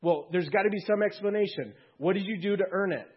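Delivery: an angel baffled, pressing harder; incredulous angel. Acted. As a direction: demand an explanation. Angel questioning the thief.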